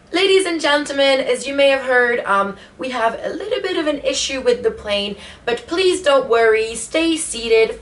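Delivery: lightly voiced pilot on the intercom; a hint of measured cabin-announcement cadence. Pilot telling passengers about an issue, lightly imitated announcement. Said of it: "then the pilot comes on".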